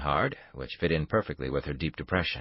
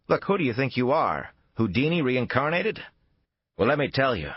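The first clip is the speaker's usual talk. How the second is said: scornful challenge; 8 semitones higher, 3 dB louder than usual. Acted. Buchanan scoffs at Lee's plan.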